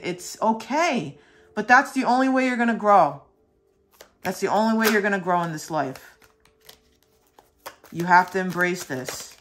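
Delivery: fervent pep talk; passionate reassurance. Real, not acted. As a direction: urge them on, heart in your throat. Urging viewer through hard change.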